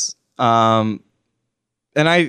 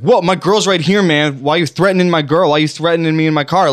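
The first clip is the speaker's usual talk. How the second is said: mock-confrontational challenge, pitched up a little; mildly indignant retelling; 4 semitones higher, 3 dB louder than usual. Retelling boyfriend confronting strangers at his car window, mildly indignant. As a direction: imitate an agitated man protesting, a bit higher. Acting out angry man threatened in car.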